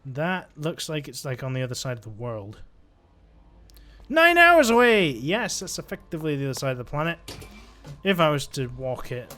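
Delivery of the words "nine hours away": high, loud outburst of disbelief; shocked exclamation. Real, not acted. Gamer seeing how far the ship is, shocked shout. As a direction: cry out, aghast at the distance.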